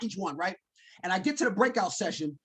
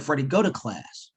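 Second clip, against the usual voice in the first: lower, slow firm instruction; wife telling him not to quit; 7 semitones lower than usual. Retold or imitated. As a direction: push him gently but firmly to class. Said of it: "She said".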